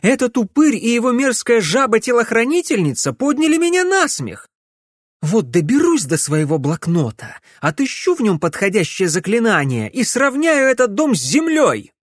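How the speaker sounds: high, loud enraged threat; furious rant. A narrator's reading. Camilla swearing to flatten the old man's house, furious. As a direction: vow revenge, boiling over. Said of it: "разъярённой Камиллы".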